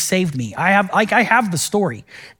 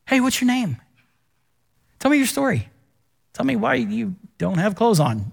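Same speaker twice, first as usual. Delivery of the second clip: gentle asking; 4 semitones higher than usual. Retold or imitated. Jesus gently asking naked man.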